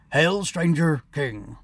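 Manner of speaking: slow, loud hailing shout. A narrator's reading. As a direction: hail the king slowly. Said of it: "Toad Knight shouted".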